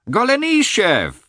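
put-on thrilled shout of an old friend's name; joyful exclamation. A narrator's reading. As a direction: call his name out in glad surprise. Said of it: "exclaimed with pleasure".

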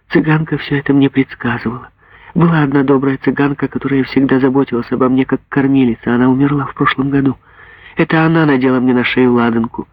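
put-on a girl eagerly telling her story; a hint of an excited young girl; lightly voiced girl. Girl tells her mother about gypsy.

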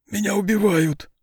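high, panicky wail. A narrator's reading. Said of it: "запричитал сытник". (причитая, высоким голосом)

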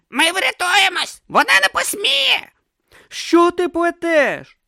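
high, loud urgent pleading; urgent shouting. A narrator's reading. Om urging Brutha to jump, loud and urgent. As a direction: shout it, desperate and fast.

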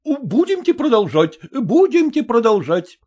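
lightly voiced officer urging on; coaxing officer. A narrator's reading. Officer urges Nadin back to the dance, coaxing.

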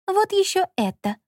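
high, sweet innocent voice; a girlish, high put-on innocence. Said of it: "с невинным видом".

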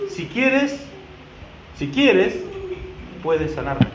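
gentle, humble request with pauses between phrases; humble plea. Acted. Blind man asking Jesus to heal him, humble plea. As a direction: ask it humbly, leaving room to refuse. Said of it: "Fíjense qué humildad".

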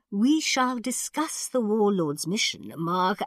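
put-on high, slow, stately old man; thin old ruler. A narrator's reading. Khan addressing Marco about the mission, thin old voice. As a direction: pronounce it regally in a high voice.

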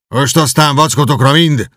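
shouting. Acted. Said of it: "kiáltotta Kenti".

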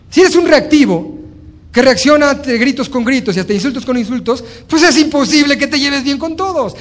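high, loud, rising appeal; emphatic preaching. Acted. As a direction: drive home the lesson to the audience. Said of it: "preaching the lesson". (sermón enfático, voz alta y fuerte)

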